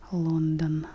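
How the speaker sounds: "London" said the Russian way with full o; Russian pronunciation. Shown as a demonstration. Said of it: "по-русски".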